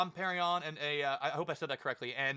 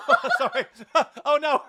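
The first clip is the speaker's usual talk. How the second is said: high, loud laugh through the words; laughing apology; 9 semitones higher, 10 dB louder than usual. Real, not acted. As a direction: apologise while cracking up. Laughs after hitting her earring.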